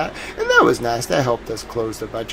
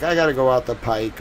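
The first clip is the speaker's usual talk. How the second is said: Boston accent. Shown as a demonstration. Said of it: "my actual accent is probably more like".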